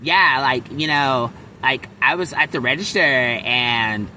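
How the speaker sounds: put-on Caucasian accent, drawn out; mock Caucasian accent. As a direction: imitate a coworker's white-sounding voice. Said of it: "a permanent voice is typically Caucasian".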